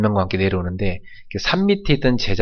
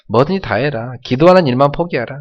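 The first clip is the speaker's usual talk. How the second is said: a touch higher mocking dare; mildly taunting devil; 3 semitones higher, 4 dB louder than usual. Preacher voicing the devil, mild higher taunt. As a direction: tease them to drop prayer. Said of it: "조롱합니다".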